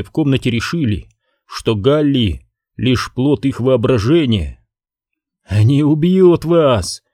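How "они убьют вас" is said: slow forceful cry, pitched up; shouting. Acted. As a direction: yell out the warning. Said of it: "выкрикнул Галли".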